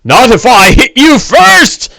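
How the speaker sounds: high, slow, snarling orc voice; orc taunt. Acted. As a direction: sneer it like a brash orc warrior. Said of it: "and looks back to the thin one and says".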